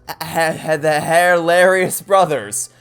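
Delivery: laughing at his own pun, hammed-up; Italian accent. Italian brother pushing his pun on the court, loud Italian accent. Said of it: "these accents".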